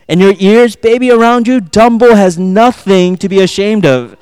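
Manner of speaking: hammed-up lover's complaint; mock frank insult. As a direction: pile on the insults to a sweetheart. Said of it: "you probably don't mean something like this".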